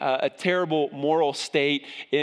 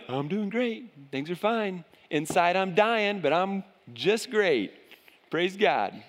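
fake cheer; 2 semitones higher than usual. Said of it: "pretend like everything is okay".

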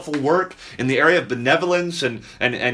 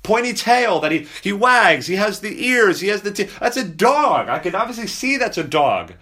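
put-on child's voice; 5 semitones higher than usual. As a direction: play a child pointing out the obvious. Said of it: "You'd say".

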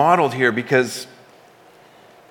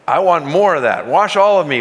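eager plea; 4 semitones higher, 5 dB louder than usual. Retold or imitated. Peter eagerly asks for more.

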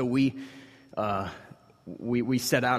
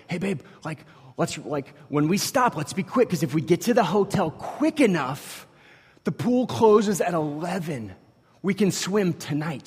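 higher, louder eager plan to his daughter; dad eagerly promising his daughter a night swim, higher and louder; eager pitch; 6 semitones higher, 3 dB louder than usual. Retold or imitated. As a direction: sell the pool idea with mounting excitement. Dad excitedly pitching pool plan.

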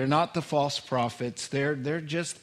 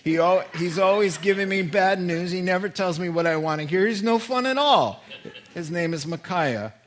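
louder, higher sulky complaint; whiny king; 4 semitones higher, 5 dB louder than usual. Acted. Ahab sulking about the pastor he hates, louder. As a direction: grumble like a spoiled king. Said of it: "And so he says".

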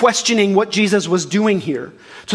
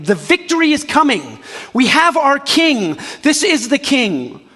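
higher, jubilant mock crowd; excited cheering; 5 semitones higher than usual. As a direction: hail the coming king. People cheering their king.

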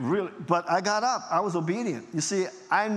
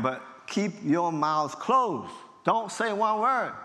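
adamant; 3 semitones higher, much slower than usual. Retold or imitated. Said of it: "I was very adamant about it".

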